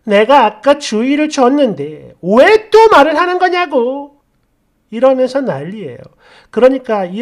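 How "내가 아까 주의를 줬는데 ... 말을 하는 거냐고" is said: fuming mother. Retold or imitated. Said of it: "또 씩씩거리며".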